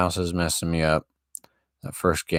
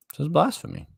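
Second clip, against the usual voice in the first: much higher, mock-outraged This is blasphemy; high mock outrage; 11 semitones higher, faster than usual. Shown as a demonstration.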